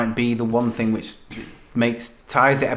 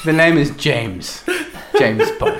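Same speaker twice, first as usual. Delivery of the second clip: James Bond line; slower than usual. Shown as a demonstration. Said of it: "I say".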